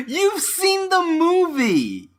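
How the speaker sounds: high, slow laughing accusation. Real, not acted. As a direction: laugh it out in disbelief.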